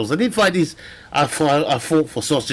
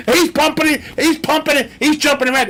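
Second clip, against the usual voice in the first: frantic excitement; 11 semitones higher than usual. Acted. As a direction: call it out in a panic. Acted medical emergency.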